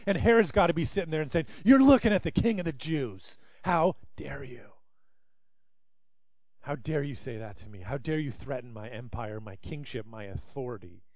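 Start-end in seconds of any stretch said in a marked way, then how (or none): 1.6-11.0 indignant king. Acted. Herod voiced in indignation.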